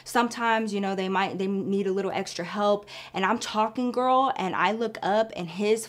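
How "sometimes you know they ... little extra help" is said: a flustered excuse to the angry boss; nervous babbling. Retold or imitated. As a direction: babble to cover your nerves. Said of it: "So I start babbling".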